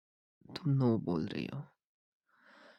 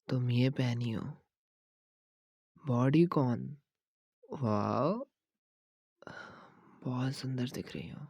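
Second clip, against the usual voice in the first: ordinary talk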